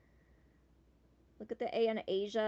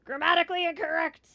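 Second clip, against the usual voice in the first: high, loud proclamation of the error; loud outcry; 7 semitones higher, 11 dB louder than usual. Real, not acted. Player flags a mistake needing a fix, loud outcry. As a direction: call it out loudly, pitch raised.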